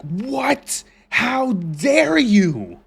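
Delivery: high, slow mock outrage; mocking outraged redditor. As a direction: sneer it like an offended fan.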